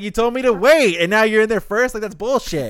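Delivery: indignant shout, high and very loud; play-acted outraged complaint, ending near laughter; Kenpachi. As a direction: imitate someone furious at being cheated. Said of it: "he's, like, pissed off".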